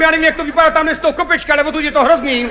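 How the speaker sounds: shouting back. Retold or imitated. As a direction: imitate calling back in protest, only half shouted. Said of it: "Oni na mě křičeli, já na ně taky". (napodobený, mírný křik na obranu)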